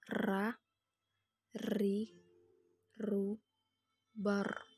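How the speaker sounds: "Ra, ri, ru, bar" satu-satu dengan r bergetar; huruf ro. Shown as a demonstration. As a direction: getarkan ujung lidah pada "bar". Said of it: "dikeluarkan dengan cara menyentuh lidah". (r bergetar di langit-langit pada "Ra, ri, ru")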